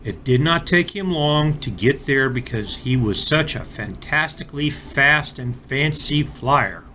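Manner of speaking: put-on gentle read-aloud storyteller for kids; expressive picture-book reading; storybook narration. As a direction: tell it like a bedtime story to small children. Reads a children's story aloud.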